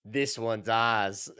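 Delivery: slow mock-Australian claim; hammed-up Australian; Australian accent. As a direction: drag it out in a put-on Aussie accent. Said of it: "we just do accents of other people".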